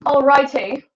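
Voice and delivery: lightly mock-British, lifted in pitch; British accent. Streamer fussing with the camera, playful British accent. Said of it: "I'm doing a British accent now".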